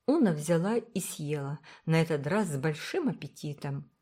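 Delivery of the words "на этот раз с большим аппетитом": ordinary delivery, nothing marked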